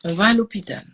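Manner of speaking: « On va à l'hôpital » dit plus fort, ferme; ordre ferme. Retold or imitated. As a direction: affirmer la décision avec force. Répète l'ordre avec force. (ordre ferme répété à sa mère)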